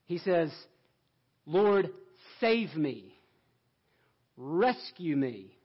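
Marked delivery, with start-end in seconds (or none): 1.5-5.6 loud, earnest plea, slowing on Rescue me; cry for help. Acted. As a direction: call out to be saved, louder. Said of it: "That's the cry of faith".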